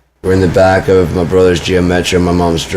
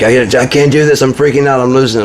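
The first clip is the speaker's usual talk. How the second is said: higher-pitched imitation of a panicked mother; mom freaking out; 7 semitones higher, faster than usual. Son retelling mom freaking out, high-pitched mock panic.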